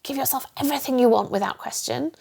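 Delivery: mock-soothing, spoiling the listener; a hint of a doting indulgent inner voice. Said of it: "highly indulgent".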